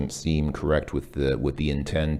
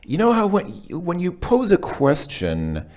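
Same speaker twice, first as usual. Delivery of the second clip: high rising question pitch; question tune; 13 semitones higher, 3 dB louder than usual. Shown as a demonstration. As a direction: lift the voice high like asking. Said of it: "your intonation should be a bit different".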